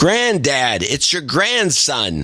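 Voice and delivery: lightly imitated con man posing as grandson; a hint of the scammer's voice; scammer impression. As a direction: play the phony grandson, drawn out. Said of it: "The guy had a big, deep, gravelly voice".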